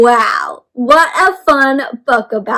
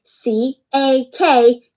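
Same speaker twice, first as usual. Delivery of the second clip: slow spelling; much slower than usual. Shown as a demonstration. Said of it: "cack, became".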